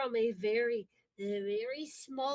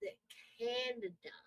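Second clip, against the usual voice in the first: higher, deliberate Canadian enunciation; enunciated northern accent; 4 semitones higher than usual. Shown as a demonstration. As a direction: lean on the long northern vowels. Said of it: "Notice how I'm enunciating".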